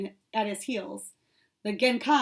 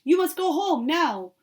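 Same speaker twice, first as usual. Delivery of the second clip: higher, louder stern order; 6 semitones higher, 5 dB louder than usual. A narrator's reading. Professor ordering his puppy home, stern and loud. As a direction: send the puppy home firmly. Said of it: "spoke in a stern voice".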